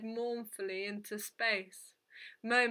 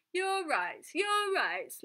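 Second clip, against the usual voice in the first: high-pitched mocking anger; indignant, high-voiced echo; angry; 8 semitones higher, 3 dB louder, slower than usual. A narrator's reading. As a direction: throw the words back angrily, pitch leaping up. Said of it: "Lelina said angrily".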